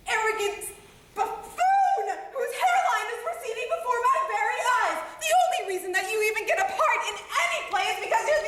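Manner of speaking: a scolding rant, laughing bitterly at times; acted anger. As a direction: tear into each of them in turn. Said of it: "Did you feel the anger?".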